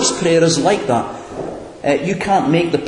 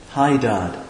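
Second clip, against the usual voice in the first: familiar; 3 dB quieter than usual. Shown as a demonstration. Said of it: "You can say it very familiarly".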